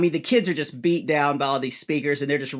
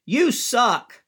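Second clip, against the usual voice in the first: mild mock yell; 7 semitones higher, 3 dB louder than usual. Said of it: "one kid down front yells".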